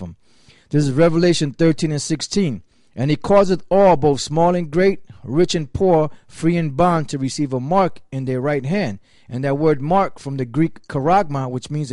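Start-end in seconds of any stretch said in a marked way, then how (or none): 2.9-9.0 louder, proclaiming Bible verse; scripture reading. Acted. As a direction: declaim the verse to the congregation. Reads scripture aloud, proclaiming.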